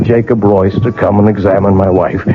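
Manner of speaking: measured, brooding storyteller read; story narration. A narrator's reading. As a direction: narrate it like a haunted memoir. Narrator recounts the clock story.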